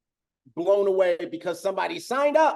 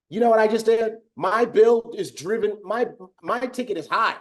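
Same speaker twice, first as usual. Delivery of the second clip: gloating; 5 semitones higher, 3 dB louder than usual. Pretend. Gloating as the waiter.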